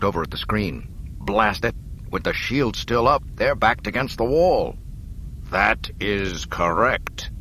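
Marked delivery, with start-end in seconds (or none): 1.2-4.8 frustrated. Acted. Han cursing in frustration. 5.5-7.3 cold officer. Acted. Hidden Imperial officer speaking.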